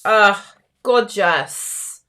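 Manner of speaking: normal talking voice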